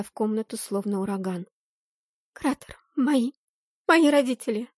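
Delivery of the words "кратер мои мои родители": high, halting, broken speech; tearful grief. Acted. Heroine tells Tsarl of attack, tearful and halting. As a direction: choke out the news through tears.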